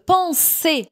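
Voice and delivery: "penser" with an unvoiced S after the nasal vowel; S as hissed S. Shown as a demonstration. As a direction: say "penser" as "pan-sé", never a Z. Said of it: "Ça se prononce S".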